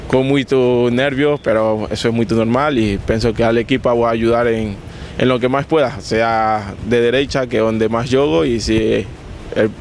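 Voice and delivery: Portuguese with a Spanish accent; Spanish speaker talking Portuguese. Real, not acted. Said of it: "O cara tá bem no português".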